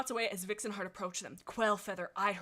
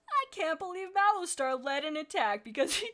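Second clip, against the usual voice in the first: higher-pitched acted indignation; indignant outburst; 7 semitones higher, 4 dB louder than usual. Quailfeather accusing after his meal, indignant. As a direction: read it as an incredulous accusation. Acted quote of an outraged cat.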